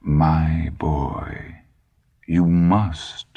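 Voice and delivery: put-on a faint German accent on the old man's "My"; slight German accent. A narrator's reading. Old man to the boy, slight German accent surfacing. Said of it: "the slight accent the old man had put on the first word".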